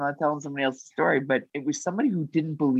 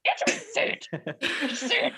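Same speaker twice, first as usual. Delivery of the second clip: demanding; 13 semitones higher than usual. Retold or imitated. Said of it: "She wasn't answering me".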